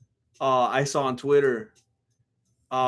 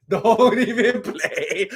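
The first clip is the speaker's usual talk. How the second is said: laughing tease; 4 semitones higher, much slower than usual. Real, not acted. Teasing the fighter.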